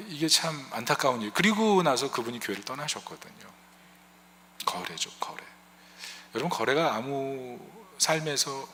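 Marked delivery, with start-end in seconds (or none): 4.7-5.4 low whisper, almost to himself; a softly breathed emphasis on the word; whispered aside. Real, not acted. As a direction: let the word sink in with a hushed whisper. Pastor drops to a whisper for emphasis.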